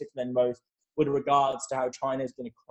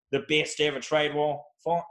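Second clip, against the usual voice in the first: Trump impression. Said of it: "I'm not gonna do a Trump impression again".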